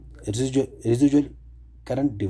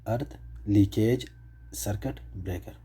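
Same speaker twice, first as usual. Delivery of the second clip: "Earth leakage circuit breaker" spelled out slowly, word by word; slow dictation; 4 dB quieter, slower than usual. Shown as a demonstration. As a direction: repeat the term slowly so students can note it down. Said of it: "E L C B کا مطلب ہے". (آہستہ آہستہ، لکھوانے کے انداز میں)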